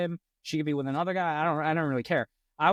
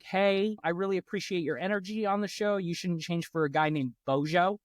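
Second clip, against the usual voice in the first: toned-down sincere message. Acted. Correcting his account of messaging the star, toned-down and sincere. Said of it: "It was more like".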